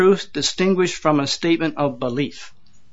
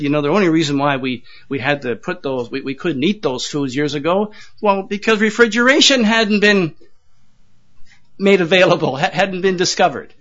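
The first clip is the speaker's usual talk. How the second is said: indignant; 2 semitones higher than usual. Retold or imitated. Jewish woman defending unclean foods, mildly indignant retelling. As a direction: retell her huffy, offended defence. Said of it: "she said very indignantly".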